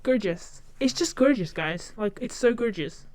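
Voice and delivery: put-on American catchphrase; American accent. Shown as a demonstration. Demonstrating the catchphrase to viewers, American accent. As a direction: gush it in an affected American accent. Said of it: "I think the accent does it".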